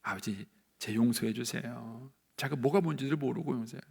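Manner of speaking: gentle plea. Acted. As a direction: plead quietly for another's pardon. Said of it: "예수님은 뭐라 그랬냐면은". (나직하고 느리게 용서를 비는 기도)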